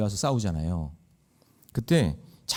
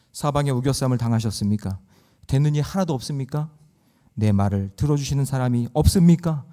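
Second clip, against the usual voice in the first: ordinary delivery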